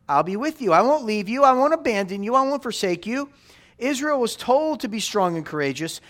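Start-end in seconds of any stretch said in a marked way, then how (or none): 0.1-3.3 building promise. Acted. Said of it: "but then he says".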